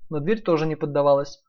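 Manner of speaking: usual speaking voice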